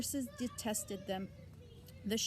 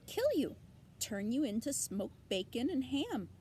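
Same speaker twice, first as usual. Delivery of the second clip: sudden high sharp "Kill", then matter-of-fact; an old sheep relishing bad news; gossiping old ewe, brisk and blunt; 4 semitones higher than usual.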